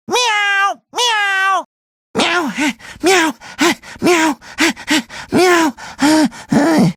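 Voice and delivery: cartoon meows with little laughs between; meowing. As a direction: meow like a playful pet. Imitating a snail or cat.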